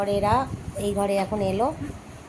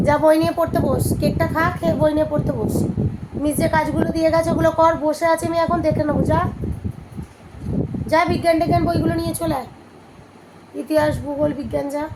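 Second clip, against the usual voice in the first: scolding mother; 4 semitones higher than usual. Real, not acted. Mother orders her daughter to eat cake and study, brisk scolding.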